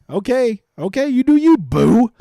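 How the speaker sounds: slow, sassy drawl with a rising end. Pretend. To players picking other golfers, slow sassy dismissal. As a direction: toss it off like a sassy friend.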